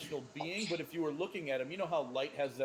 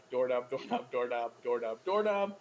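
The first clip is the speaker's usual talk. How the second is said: growling voice; 2 semitones lower, 4 dB louder than usual. Acted. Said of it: "growling word of doorknob".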